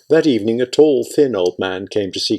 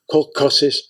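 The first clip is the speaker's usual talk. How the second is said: mournful; 2 semitones higher than usual. A narrator's reading. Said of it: "Aunt Christia repeated mournfully".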